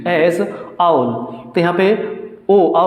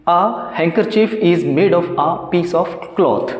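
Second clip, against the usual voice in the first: slow dictation; much slower than usual. Shown as a demonstration. Teacher dictates example sentence.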